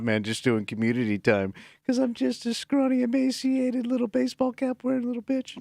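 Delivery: bitch voice. Retold or imitated. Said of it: "We take all your bitch voices".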